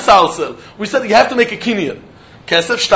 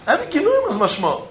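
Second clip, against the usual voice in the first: softer echo of the point; murmured restatement, softer; quiet repeat; 3 semitones higher, 8 dB quieter than usual. Shown as a demonstration. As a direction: drop the volume and let it land.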